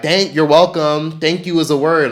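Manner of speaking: mock the rude stranger who won't say thanks; petty sarcastic thanks. Sarcastic jab at someone who skipped the thank-you. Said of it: "I used to get so mad to the point where I used to be like".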